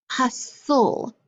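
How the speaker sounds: hustle as HUS, then "sul", with no t; syllables separated. Shown as a demonstration. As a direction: split hustle in two, leaving the t silent. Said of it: "We can't hear that T at all".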